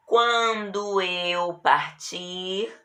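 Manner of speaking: slow example. Shown as a demonstration. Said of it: "Olha o quando".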